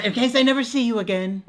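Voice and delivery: put-on high, loud old-fashioned dramatic voice; hammed-up old-timey farewell. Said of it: "In an old-timey voice".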